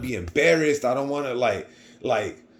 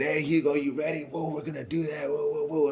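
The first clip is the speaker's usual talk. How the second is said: light, upbeat imitation of hyped friends; mock excited cheer; 5 semitones higher than usual. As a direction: teammates hyping Hugo before the tournament, mock excited. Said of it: "people asking me all excited".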